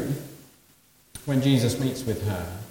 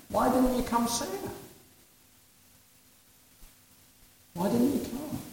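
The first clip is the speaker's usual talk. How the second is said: pleading sisters; 10 semitones higher, 6 dB quieter than usual. Retold or imitated. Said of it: "you can hear them saying".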